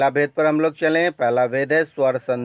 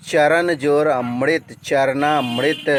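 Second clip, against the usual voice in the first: slow dictation; slower than usual. Shown as a demonstration. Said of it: "teacher demonstrates example".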